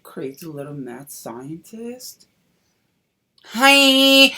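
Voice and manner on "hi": loud high bright hi; excited greeting. Real, not acted. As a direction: burst out with the greeting. Reveal of final look.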